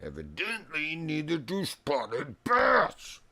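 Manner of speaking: high, slow sarcastic drawl. Real, not acted. To the fish that won't bite, slow high sarcasm. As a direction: drag it out with dry sarcasm.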